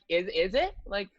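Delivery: acted, upbeat questioning; pumped up. Player hyping up a little girl, pumped. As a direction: play the pumped-up hockey player quizzing a fan. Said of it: "I'm pumped for you".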